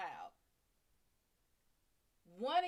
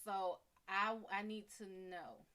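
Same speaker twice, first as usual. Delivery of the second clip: gentle. Shown as a demonstration. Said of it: "So just speak to her".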